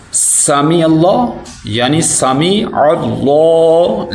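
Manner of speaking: سمیع اللہ slowly, the second اللہ thick and held; demonstrated reading. Shown as a demonstration. Teacher explaining the letters, سمیع اللہ slow with ayn. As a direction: repeat سمیع اللہ, stretching the heavy l. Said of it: "اس کو موٹا کرنا ہے".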